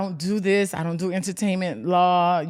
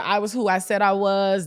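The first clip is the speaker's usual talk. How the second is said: ordinary talk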